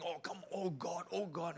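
a lightly voiced groaning Job; mock anguished plea; Job's lament. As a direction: moan it like a sufferer. Voicing Job's complaint.

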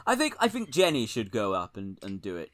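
lightly voiced politician, sounding like David Cameron; Keir Starmer. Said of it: "That's not a good Keir impression".

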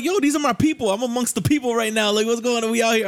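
animated retold clowning; retold playful protest. Retold playful protest to his friends.

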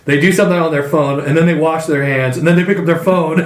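excited. Real, not acted. Laughing rant about dirty phones.

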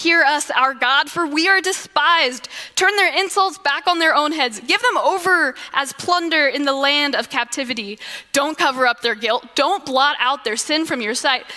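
mildly angry, insistent plea to God; angry prayer. Acted. Nehemiah praying against those insulting the builders, acted angry prayer. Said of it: "He's praying this way because he's angry".

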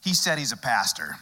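put-on older New York Jewish lady voice; New York Jewish accent, low and dry. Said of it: "in her classic Jewish New York voice".

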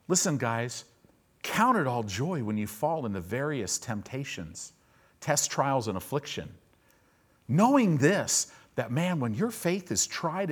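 a hint of a chill preacher talking to the guys; laid-back pastor. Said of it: "Pastor James goes".

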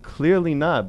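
dry sarcastic reply. Retold or imitated. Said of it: "sarcastic on Twitter".

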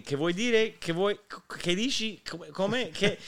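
a hint of a baffled interpreter; puzzled Roman friend. Friend interpreting for him, lightly voiced puzzled Italian questions. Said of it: "she kept saying".

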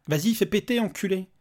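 angry insult. Acted. Father curses at the robot, angry. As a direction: throw the insult at him.

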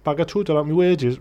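brief demo in Geordie; a touch of broad Geordie; Geordie accent. Shown as a demonstration. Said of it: "that's a Geordie accent".

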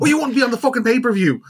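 high sneering taunt; mocking high voice. Continues mocking quote.

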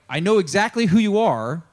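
high, loud insistence; emphatic confrontation. Acted. Peter confronting the Messiah he just declared, emphatic.

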